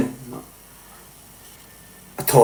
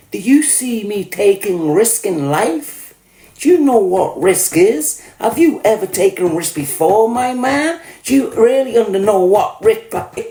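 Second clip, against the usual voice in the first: mocking; 6 semitones higher than usual. Mocking interrogation.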